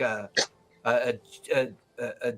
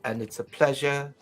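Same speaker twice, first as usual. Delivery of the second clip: Mannheim. Acted. GM voices the NPC Mannheim.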